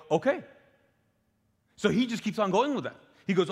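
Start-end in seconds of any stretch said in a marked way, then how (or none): 0.1-0.4 a much higher, louder "okay"; queen's okay. Retold or imitated. King and queen answering the cupbearer, in a high mock queen voice. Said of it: "she and the king respond, they go".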